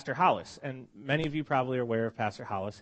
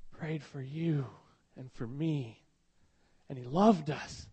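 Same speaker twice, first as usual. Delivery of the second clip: voice breaking; slower than usual. Real, not acted. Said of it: "Sorry, I'm a little emotional".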